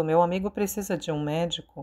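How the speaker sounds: plain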